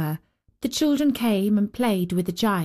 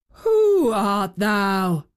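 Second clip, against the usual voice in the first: awed loud call; 4 dB louder, much slower than usual. Acted. Giant faces the holy child.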